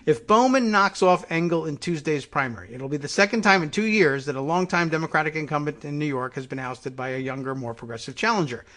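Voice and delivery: reading an article out with emphasis; news read-aloud. Real, not acted.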